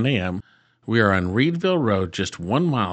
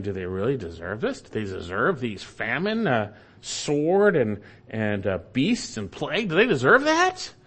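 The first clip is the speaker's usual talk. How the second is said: doubting elders. Retold or imitated. Elders in exile questioning God's judgment, incredulous. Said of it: "the elders might be saying".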